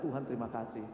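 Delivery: low, soft prayer of thanks; retold hushed gratitude; relieved thanks. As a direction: thank God quietly, with relief. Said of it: "lega rasanya, saya bilang".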